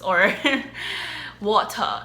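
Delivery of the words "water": put-on British accent. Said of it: "British English accent".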